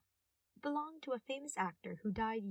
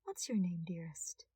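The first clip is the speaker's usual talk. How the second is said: smirking; slower than usual. Acted. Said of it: "he smirked".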